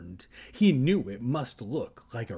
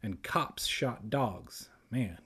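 dry aside; 5 dB quieter than usual. Real, not acted. Comic aside, dropping voice.

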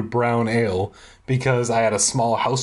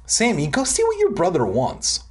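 mock order; 7 semitones higher than usual. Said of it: "Mom ordered".

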